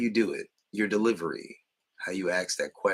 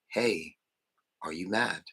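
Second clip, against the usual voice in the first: plain calm asking. Shown as a demonstration. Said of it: "if you ask a grown adult".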